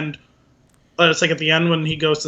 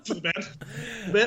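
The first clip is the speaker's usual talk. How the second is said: soft pleading; 3 semitones higher, 10 dB quieter than usual. Shown as a demonstration. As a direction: coax gently with "For the band.". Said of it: "If you do it like that".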